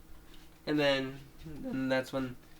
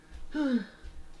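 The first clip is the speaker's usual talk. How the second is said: weary sigh; 13 semitones higher than usual. Acted. Acting a sleepy, unwell character.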